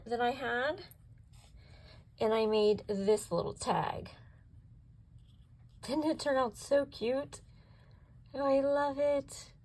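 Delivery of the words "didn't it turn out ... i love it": higher, bubbly admiration; gushing delight. Real, not acted. Crafter admiring her finished tag, gushing with delight. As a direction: gush over how cute it turned out.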